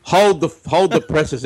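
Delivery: announcer-style, drawn out; old radio voice. Pretend. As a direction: read it like a newsreel man. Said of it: "the old radio voice".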